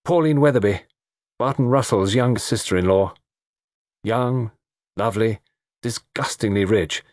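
lightly voiced young man about town; chatty young man. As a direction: fill in a friend on the guests.

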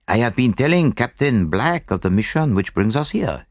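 put-on lightly accented, courteous detective; Poirot. Poirot introduces his mission.

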